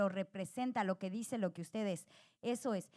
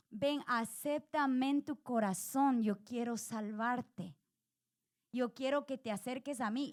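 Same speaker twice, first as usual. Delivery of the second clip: tender invitation. Retold or imitated. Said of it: "Cristo viene y dice".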